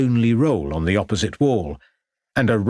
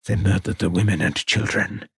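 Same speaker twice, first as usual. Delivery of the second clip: sad. Acted. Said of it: "continued Thurmain sadly".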